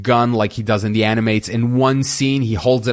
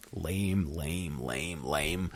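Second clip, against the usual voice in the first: weary sighing; 8 semitones lower, 16 dB quieter, much slower than usual. Real, not acted. Reviewer sighing over an awkward movie scene, deflated. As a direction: sigh then a soft, low, dragging lame, lame, lame.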